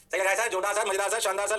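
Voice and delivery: lightly voiced chorus of pupils; a hint of a sing-song class reply; imitated student praise. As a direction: chant it like approving students, on a level pitch.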